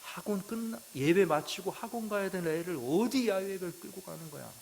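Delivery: mock-furious father on the phone; angry father yelling. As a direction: retell the father's angry rant with heat. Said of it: "소리를 꽉 지르는 거예요".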